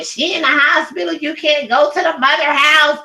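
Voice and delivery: high, sneering mimicry of their excuse; mocking quote. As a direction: parrot their line back with scorn. Mocking the other side's claim.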